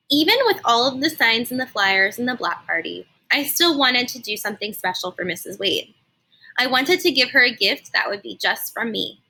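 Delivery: put-on lively read-aloud narration for kids; expressive storybook reading for a class; story narration. A narrator's reading. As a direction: tell it like storytime on the rug. Teacher reads story aloud.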